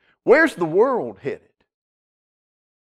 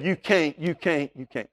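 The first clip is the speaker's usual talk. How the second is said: a hint of a nagging relative, dying away softer; fading taunt; 5 dB quieter than usual. Family member telling the listener they can't, fading mock taunt. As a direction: let each can't sink quieter.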